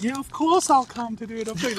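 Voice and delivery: high, gushing mock agreement; overly eager yes. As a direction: play the pushover who says yes. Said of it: "you don't have to be all like".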